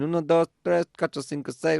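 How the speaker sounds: imitating a talking toy, high and bright; toy voice counting. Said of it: "it was going".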